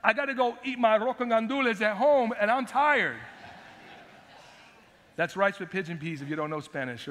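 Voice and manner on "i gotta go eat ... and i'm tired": whiny disciples. Retold or imitated. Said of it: "the disciples came and said".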